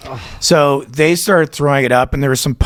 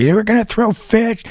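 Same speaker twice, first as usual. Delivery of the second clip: mock excited blurt; 10 semitones higher than usual. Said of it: "I ran up on the stage going".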